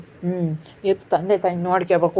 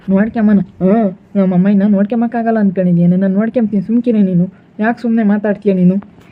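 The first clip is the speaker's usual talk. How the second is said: louder heated telling-off; loud scolding; 5 dB louder than usual. Acted. Son defends his mother to his wife, loud and heated. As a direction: lay into her, loud and firm.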